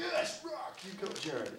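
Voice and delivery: high-pitched celebratory outburst; excited cheer. Real, not acted. Comic hails the one audience member on MySpace, excited cheer. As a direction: cheer him on, pitch leaping way up.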